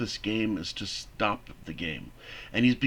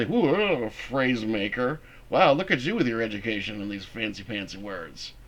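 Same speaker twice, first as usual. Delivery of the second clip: teasing mock admiration. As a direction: tease with fake awe. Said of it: "the other one would say".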